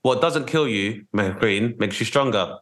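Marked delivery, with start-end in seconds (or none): 1.2-1.8 Mehreen awkwardly mispronounced, with a hard k sound; botched name attempt. Real, not acted. Host trying the guest's name, botched pronunciation. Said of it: "sounds like a terrible attempt".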